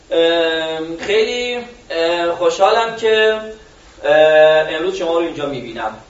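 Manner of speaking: halting with ums and uhs; first version full of hesitations; filler-laden. Shown as a demonstration. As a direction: stumble through with uh fillers. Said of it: "حالت اول".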